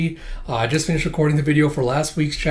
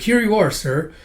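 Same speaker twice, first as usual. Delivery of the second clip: higher-pitched, obliging voice; polite server; 7 semitones higher than usual. Acted. Cook handing over hot sake, high polite server voice. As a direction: present it in a put-on high voice.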